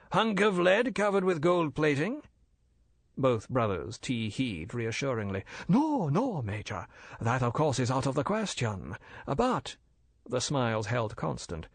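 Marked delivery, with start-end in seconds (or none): 0.1-2.2 anxious. Acted. Worried major asks. 5.7-9.8 polite and bland, a dealer explaining; bland Chinese merchant. Acted. Older Fu brother lecturing the major, smooth and polite.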